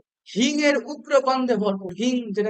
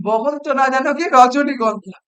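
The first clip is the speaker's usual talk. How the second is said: mock praise; 5 dB louder than usual. Shown as a demonstration. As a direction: draw out the compliment as obvious satire. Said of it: "আমি একটু ব্যঙ্গ করেই বলছি". (টেনে টেনে ব্যঙ্গ করে প্রশংসা)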